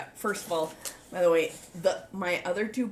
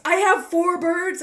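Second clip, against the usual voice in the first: high, excited shout of a text; all caps, excited; 12 semitones higher, 9 dB louder than usual. Retold or imitated. Texting back on learning of four birds, excited shout. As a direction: yell it out like capital letters. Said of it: "and then all caps".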